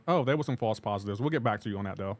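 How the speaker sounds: lightly mocking nonchalance; casual. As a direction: brush it off like it's nothing. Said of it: "they say it so casually".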